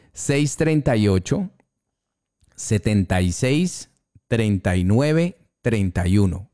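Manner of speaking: phone number dictated slowly in groups; slow, careful digits for note-taking; slow dictation. Real, not acted. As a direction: pause after each group, lifting the endings. Host dictates number for listeners.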